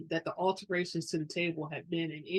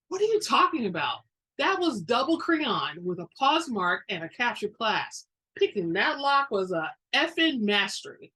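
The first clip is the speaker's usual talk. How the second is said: indignant retort; 3 semitones higher, 5 dB louder than usual. Acted. Indignant thief defends lock picking.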